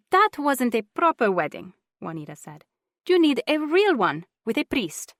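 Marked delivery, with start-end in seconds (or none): 0.1-1.7 put-on older woman voice. A narrator's reading. Juanita voiced. 3.1-5.1 insistent aunt, high and loud; older woman voice. A narrator's reading. Juanita voiced.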